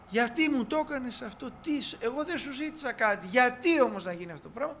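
a grieving mother crying out why; anguished reproach. Retold or imitated.

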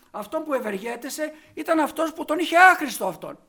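fiery sermon delivery; forceful preaching. Acted. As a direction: drive the point home from the pulpit. Preacher builds to full force.

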